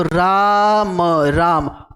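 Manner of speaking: "राम" with a long held "आ"; pluta vowel. Shown as a demonstration. Teacher giving a name as example, "राम" drawn out. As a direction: stretch the middle of "राम", then let it drop. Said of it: "प्लुत स्वरों का उच्चारण".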